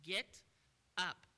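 loud, firm order; strong command. Shown as a demonstration. Preacher commanding the sick man, loud and firm. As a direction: bark it as a command. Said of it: "in a very strong command".

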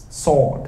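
"Sword" in one syllable, no w sound; correct pronunciation of sword. Shown as a demonstration. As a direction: say Sword as sawd. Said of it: "cái từ này phát âm là sword".

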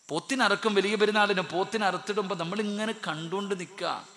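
high, loud preaching burst. Acted. Preacher raising his voice to the crowd about the sacrifice, loud and high. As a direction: throw it out to the whole hall.

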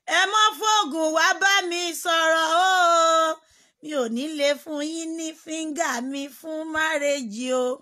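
slow, high, loud put-on voice; acted refusal.

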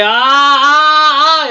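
high, loud gasping ahs; excited gasping. Retold or imitated. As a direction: gasp as it all clicks into place. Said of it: "y dice". (reacción al entenderlo todo, gritos agudos de asombro)

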